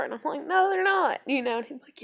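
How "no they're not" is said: very high, loud retold retort; emphatic contradiction. Girlfriend contradicting panicking boyfriend, emphatic. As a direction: re-enact squabbling, voice shooting up. Retold back-and-forth argument.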